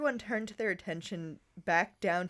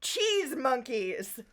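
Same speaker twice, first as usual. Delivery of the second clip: screaming; 6 semitones higher, 3 dB louder, much slower than usual. Acted. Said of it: "So she screamed behind Bob's back".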